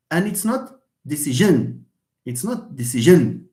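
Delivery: decision stressed on the last syllable, deci-SION; wrong stress. Shown as a demonstration.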